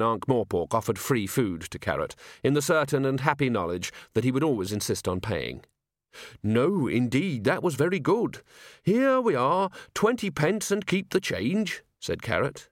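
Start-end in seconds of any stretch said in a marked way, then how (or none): 6.4-11.8 lightly voiced earnest young guardsman; polite, eager young man. Carrot answering the waiter.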